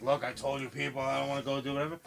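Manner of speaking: fast, mildly salty brush-off. Acted. Indy refusing the visitors' offers, mildly salty. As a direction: rattle it off, a touch irritated. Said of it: "little salty about it".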